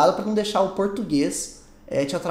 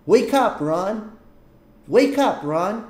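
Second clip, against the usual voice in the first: higher, louder wake-up call; calling out to wake someone; 3 semitones higher, 4 dB louder, much slower than usual. Acted. To friend Ron still asleep, calling out to wake him. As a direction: rouse a sleeping friend with a call. Acted waking of sleeping friend.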